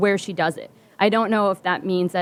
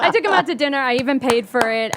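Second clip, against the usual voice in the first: laughing; 4 semitones higher than usual. Real, not acted. Laughing about the dinner.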